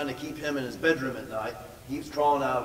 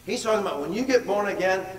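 "born again" phrase pushed higher and louder; emphatic repeat; 6 semitones higher, 5 dB louder than usual. Shown as a demonstration. Pastor driving the point home to the church, emphatic. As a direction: repeat it with preacher's force.

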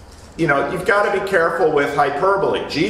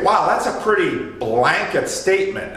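mock surprise; 3 semitones higher than usual. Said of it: "we say".

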